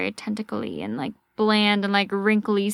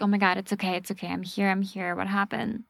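soothing; 3 semitones lower, 5 dB quieter, faster than usual. Retold or imitated. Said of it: "He's like".

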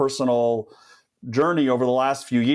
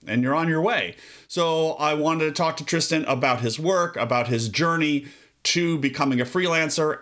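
polished, scripted episode introduction; podcast host intro. Acted. Host introduces a data visualization designer, scripted intro delivery. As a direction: present the guest to the listeners.

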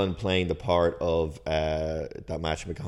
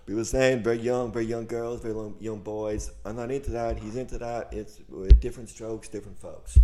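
lightly voiced Trump rambling; a hint of Trump; Trump impression; 4 semitones higher than usual. Cohost riffs as Trump about the act, mild Trump voice. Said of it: "impressions on the podcast".

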